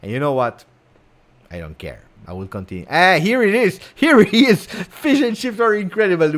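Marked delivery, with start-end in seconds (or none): 2.9-6.4 high, loud delighted cry; excited cheer. Real, not acted. Welcoming a chat comment, high and loud with excitement. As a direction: greet the comment like a goal.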